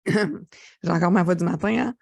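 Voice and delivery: raspy just-woke-up voice; rough, unused morning voice; hoarse morning voice. Real, not acted. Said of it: "Oui, j'ai la voix rauque".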